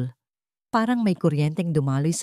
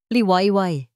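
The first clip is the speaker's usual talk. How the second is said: serious but tender; 3 semitones higher, 4 dB louder, slower than usual. A narrator's reading. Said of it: "Seryoso pero malambing".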